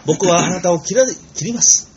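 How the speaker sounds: slow, ringing swordsman line; sonorous samurai. Retold or imitated. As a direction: declaim like a dashing samurai. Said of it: "朗々として". (朗々とした侍の声)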